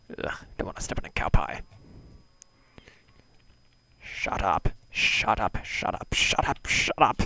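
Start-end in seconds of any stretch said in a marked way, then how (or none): 4.0-7.2 irritated shouting. Real, not acted. Yelling at noisy cows.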